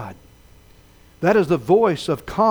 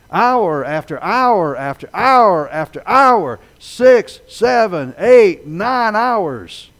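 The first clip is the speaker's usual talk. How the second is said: each hour stretched slow, building louder; drawn-out emphasis; 2 semitones higher, 4 dB louder, much slower than usual. Acted. Preacher stressing the long night on the lake, slow and building. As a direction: drag out every hour of the struggle. Counting the long hours of struggle.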